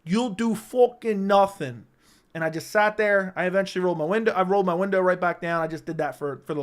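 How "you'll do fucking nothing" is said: slow, drawn-out mock taunt; a hint of McGregor, dragged slowly; lightly voiced Irish fighter taunt, stretched out; Conor McGregor impression. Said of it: "To quote Conor McGregor".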